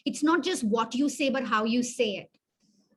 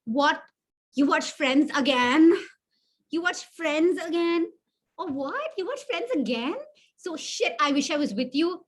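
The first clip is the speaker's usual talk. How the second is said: excited; 3 semitones higher than usual. Shown as a demonstration.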